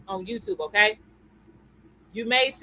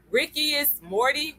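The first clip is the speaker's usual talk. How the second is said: saying a name slowly, slightly higher; slow, careful; 4 semitones higher than usual. Real, not acted. Streamer reading out a viewer's name to greet them, slow and careful. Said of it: "I had to say that slow".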